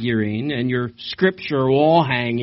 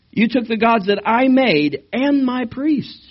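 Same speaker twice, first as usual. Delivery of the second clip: angry accusation; 10 semitones higher, 4 dB louder than usual. Acted.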